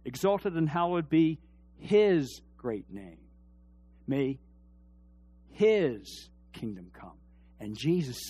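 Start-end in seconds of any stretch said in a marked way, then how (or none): 0.0-7.2 slow prayer reading. Retold or imitated. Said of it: "that's what the Jews did".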